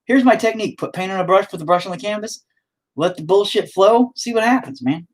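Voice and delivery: high, laid-back hint of a TV painting teacher; imitating Bob Ross. Vlogger mocks painting teacher's method, high laid-back voice. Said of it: "showed you techniques".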